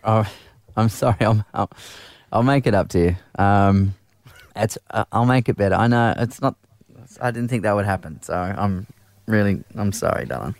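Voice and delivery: low, meek, grovelling sorry; grovelling apology. Acted. Host grovels to his wife on air, meek and pleading. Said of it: "your grovelling".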